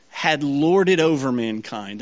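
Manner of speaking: slow down and lean hard on "lorded"; weighty, deliberate emphasis on "lorded"; stress on LORDED. Real, not acted. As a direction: make "lorded" the key word, unhurried. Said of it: "I wanna stress that word".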